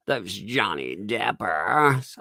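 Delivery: slow, stretched ending in imitation; mocking teen affectation. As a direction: drag out the last sound mockingly. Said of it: "What is that sound, man?".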